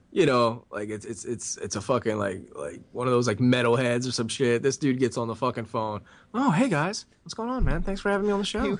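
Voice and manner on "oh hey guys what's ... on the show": high, extremely gentle nice-guy voice. Retelling a deathmatch wrestler's phone call: imitating an extremely gentle guy. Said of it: "extremely gentle and shit".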